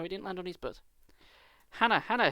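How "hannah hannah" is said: high, loud call across the yard; mother calling loudly from the door. Acted. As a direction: call her from the back door. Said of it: "her mother calling for her".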